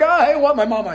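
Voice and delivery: put-on flustered kid freaking out, high and loud; mock panicked blurting, tripping over the greeting; Josh. Kid greeted by girls, comically flustered. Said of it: "He's freaking out".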